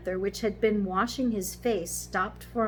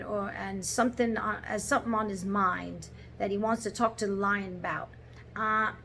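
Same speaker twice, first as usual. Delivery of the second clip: put-on Cockney accent; 2 semitones higher, 4 dB louder than usual. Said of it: "the Cockney accent".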